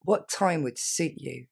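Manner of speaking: slow, polished waiter's question; formal restaurant phrasing; chic full sentence. Shown as a demonstration. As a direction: say it slowly and politely. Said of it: "un restaurant un petit peu plus chic".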